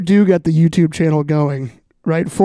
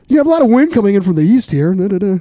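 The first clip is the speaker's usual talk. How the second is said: newscaster voice; 3 semitones higher than usual. Pretend. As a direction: read it like a local weather reporter. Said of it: "put on my best, uh, newscaster voice".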